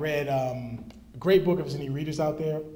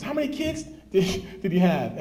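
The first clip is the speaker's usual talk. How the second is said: lightly voiced child, much higher, breaking into a laugh; a hint of an innocent girl asking, laughing; curious daughter; 4 semitones higher, 3 dB louder than usual.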